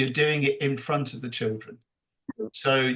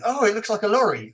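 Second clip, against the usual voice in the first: put-on mild eager child voice, higher; children guessing; 9 semitones higher, 4 dB louder, faster than usual. Children recognising the lorry drawing, lightly mimicked, higher. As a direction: lightly play the kids spotting it. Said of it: "And then they're going".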